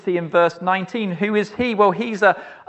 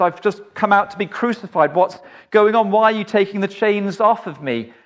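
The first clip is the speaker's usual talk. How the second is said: bewildered prisoner; 2 semitones higher, 3 dB louder than usual. Acted. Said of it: "a bit confused because".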